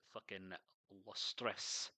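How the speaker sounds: stray Scottish lilt on the words; accidental lapse into Scottish; Scottish accent. Real, not acted. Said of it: "I don't know why I went Scottish there".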